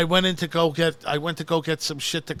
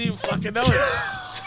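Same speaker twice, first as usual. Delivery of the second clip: laughing. Real, not acted. Laughing at own blunder.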